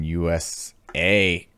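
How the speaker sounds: "U S A" spaced out, with a long "A"; hesitant drawn-out delivery. Real, not acted. Friend recalling a remote town's location, "U S A" drawn out haltingly. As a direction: stretch the final "A" of "U S A" after a pause. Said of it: "I don't like the way you said that".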